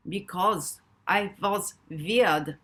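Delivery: put-on slow German accent, "weird" as "vird". A narrator's reading. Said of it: "his adopted German accent".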